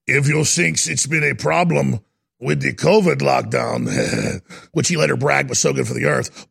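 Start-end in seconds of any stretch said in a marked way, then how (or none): 0.1-4.4 mock German accent. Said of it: "I do more of a Russian accent than a German".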